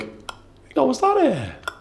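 high, laughing retold question; laughing disbelief. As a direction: squeal it out through giggles. Retelling spotting a surprise arrival.

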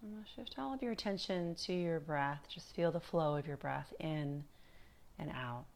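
calm, unhurried meditation guide with long pauses; guided meditation. Acted. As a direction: ease them gently through body and breath, leaving space between phrases.

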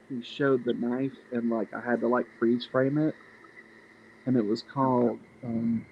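muffled, hand over the mic; mic covered by hand. Real, not acted. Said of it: "you're covering the mic with your hand".

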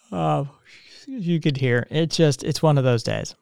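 talking through a yawn; sleepy yawning voice. Real, not acted. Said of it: "I'm yawning on it".

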